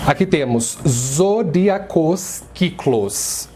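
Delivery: zodíacos kiklos read slowly, stress on the ó of zodíacos; slow Greek reading. Shown as a demonstration. Teacher reads the Greek words from the board slowly. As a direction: spell out zodíacos kiklos syllable by syllable. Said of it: "explicar como funciona a pronúncia".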